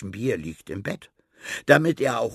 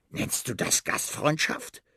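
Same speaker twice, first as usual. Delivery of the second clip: indignant snort; 5 semitones higher than usual. Acted. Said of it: "Die Ratte schnaubt".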